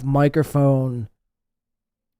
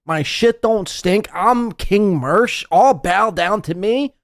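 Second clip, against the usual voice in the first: mock arrogant king; 4 semitones higher, slower than usual. Mocking Mersh as arrogant king.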